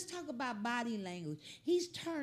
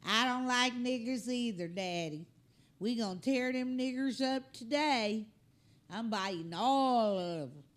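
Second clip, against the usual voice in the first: hillbilly accent, voicing a dog, louder; 3 dB louder than usual. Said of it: "That dog got a hillbilly accent".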